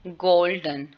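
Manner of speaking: गोल्डन with a clear ओ sound; गोल्डन demonstrated slowly; golden said slowly. Shown as a demonstration. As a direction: say गोल्डन with the vowel stretched. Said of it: "ओ एल जो है वो आउ की आवाज़ दे रहा है".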